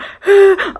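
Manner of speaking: sharp, high, loud gasp; imitated shocked gasp. Woman reacting to voice in her ear, frightened gasp. Retold shock after ghostly whisper.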